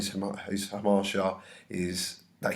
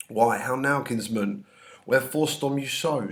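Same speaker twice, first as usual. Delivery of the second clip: Capulet questioning; 4 semitones higher, 5 dB louder than usual. Acted. Capulet questions angry Tybalt.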